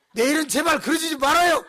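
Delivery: high, loud begging with a laugh; exasperated laughing plea; pleading shout. Retold or imitated. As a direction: plead with her, half laughing. Pastor begs mother.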